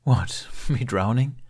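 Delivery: amused, slow, wry laugh; mild amused snort. Acted. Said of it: "Jack snorted".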